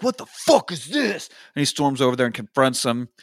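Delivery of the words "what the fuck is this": high, drawn-out indignant question; mock outrage. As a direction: act out incredulous anger without shouting. Voices friend about to storm over.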